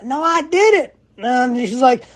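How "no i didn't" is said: indignant denial. Retold or imitated. Denying to customer.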